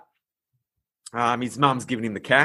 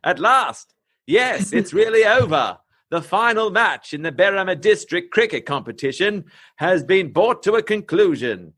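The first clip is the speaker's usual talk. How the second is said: put-on grand old newsreel announcer, lilting pitch; old-timey news voice; 3 semitones higher than usual. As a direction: read it like a vintage news bulletin. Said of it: "I'll read it in my best, uh, old, oldie-timey news voice".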